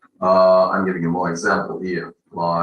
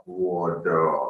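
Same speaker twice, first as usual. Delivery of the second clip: American "water" with the T softened to a D; American accent. Shown as a demonstration. Teacher demonstrating American English to learners, American accent. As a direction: say "water" as American "wah-der". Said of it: "if we talk about the American accent".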